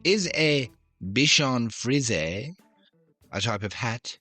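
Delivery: light mock French accent. Quizmaster posing dog question in mock French accent. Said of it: "here comes another accent".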